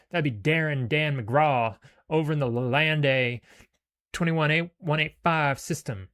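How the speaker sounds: Skinny offering a job; Skinny's voice. Acted. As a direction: bargain like a smug thug.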